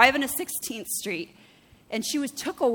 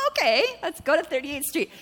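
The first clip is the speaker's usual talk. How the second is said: resigned okay; 5 semitones higher than usual. Retold or imitated. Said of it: "I'm like".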